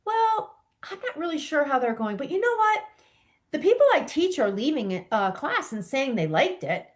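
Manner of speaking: unsure, lifting up into questions; doubtful questioning. Retold or imitated. Teacher telling her coach she's unsure, doubtful questioning. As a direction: sound like a teacher unsure her class went well. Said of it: "their voice goes up".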